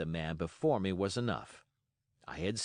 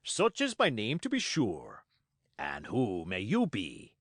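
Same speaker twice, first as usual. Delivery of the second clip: hearty Silver. Acted. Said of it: "said he".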